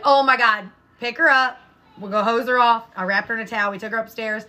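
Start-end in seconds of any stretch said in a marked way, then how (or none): 0.0-2.8 exasperated orders. Retold or imitated. Mom to son about the muddy dog, exasperated. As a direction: call out urgent orders in exasperation.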